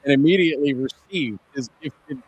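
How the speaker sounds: muffled underwater sound; like talking from under water. Real, not acted. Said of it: "he sounds like he's underwater".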